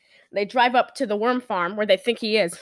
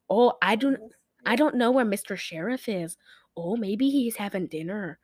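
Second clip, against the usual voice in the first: put-on a light Wisconsin accent; 2 semitones lower, 5 dB quieter than usual. Podcaster mimics frumpy maid unsure where sheriff is, light Wisconsin accent. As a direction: imitate a Wisconsin maid, understated. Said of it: "She sounds like she's from, like, freaking Wisconsin".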